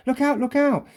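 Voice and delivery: high called warning; a boy warning everyone to run; alarmed warning. Acted. Acting character's warning line.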